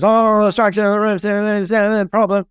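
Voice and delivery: high, mock-alarmed inspector fussing over the roof. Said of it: "some twit who comes along and goes".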